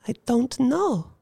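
evasive woman's voice. Acted. Woman repeats her evasive answer.

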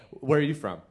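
usual speaking voice

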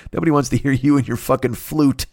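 ordinary talk

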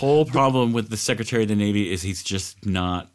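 dry sarcastic deadpan. Acted. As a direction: say it with mock sincerity. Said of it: "That's total sarcasm".

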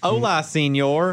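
slow, lightly voiced Texan president trying Spanish; a hint of George Bush fumbling through Spanish; George W. Bush speaking Spanish. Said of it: "Now we're just doing George W. Bush doing Spanish".

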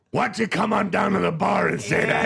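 mock angry dare. Red yells a dare at the prank caller. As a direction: shout the dare.

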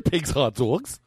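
"Pink's" coming out like "pigs"; slurred Pink's. Real, not acted. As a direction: swallow the n in "Pink's" so it sounds like "pigs". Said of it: "I thought you were saying Pigs".

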